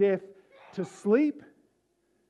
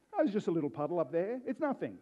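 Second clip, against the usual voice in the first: dismissive mock quote; much faster than usual. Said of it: "it's a bit offensive to say that".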